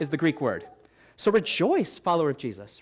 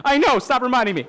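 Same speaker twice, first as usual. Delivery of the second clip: laughing mock complaint; laughing reply to a teasing heckle; 6 semitones higher, 6 dB louder than usual. Real, not acted. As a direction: laugh it off, louder. Joking about absent wife.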